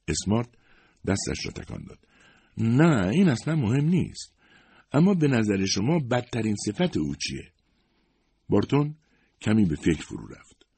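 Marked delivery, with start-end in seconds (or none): 2.6-7.5 a higher, curious questioning voice; lightly voiced Miss Smart. A narrator's reading. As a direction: play the probing young interviewer. (صدای کمی زیرتر دوشیزه اسمارت، کنجکاو و پرسشگر)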